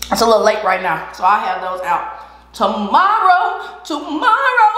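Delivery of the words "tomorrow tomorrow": drawn-out high tomorrow. Real, not acted. Drawing out the word.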